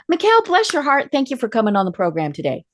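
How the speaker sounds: mean every word of "bless your heart", kindly; sincere Southern "bless your heart", lifted high; genuine bless your heart. Shown as a demonstration. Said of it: "that's a bit more genuine".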